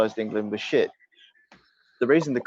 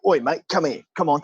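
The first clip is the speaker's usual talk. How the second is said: mock Aussie goading someone into a fight; slightly raised, challenging Australian bar fighter; brawling Australian; 4 semitones higher than usual. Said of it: "then the Australian go".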